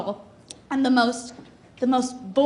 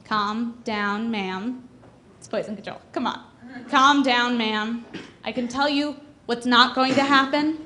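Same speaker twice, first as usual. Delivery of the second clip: bored rude operator; 2 semitones lower, slower than usual. Retold or imitated. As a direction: brush her off like it's nothing. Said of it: "he's obviously having a bad day".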